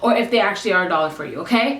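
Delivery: polite, quick and even customer service; no attitude. Retold or imitated. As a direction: explain helpfully without any edge, rattled off fast. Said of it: "this is exactly how I sounded ... No attitude".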